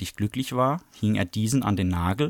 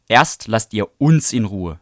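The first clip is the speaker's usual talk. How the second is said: louder, slow and defiant; 7 dB louder than usual. Acted. Bradley shoving Melinda, slow loud defiance. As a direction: dig your heels in.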